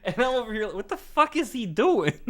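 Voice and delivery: high, laughing disbelief; cracking up while asking. Real, not acted. Laughing at Mike's wild roleplay.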